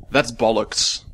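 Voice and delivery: attempted British accent, barely holding back a laugh; half-laughing British accent. Podcaster giving a last example of British speech, half-laughing accent. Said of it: "I was kinda half laughing when I said that".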